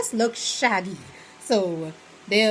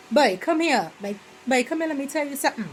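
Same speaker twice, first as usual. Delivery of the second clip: calling out; 6 semitones higher, faster than usual. Retold or imitated. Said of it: "you can be like".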